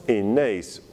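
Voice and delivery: "enaïs" run together across the word boundary; resyllabified. Shown as a demonstration. Teacher showing resyllabation, "enaïs" linked as one word. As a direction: join the words of "enaïs" without a break.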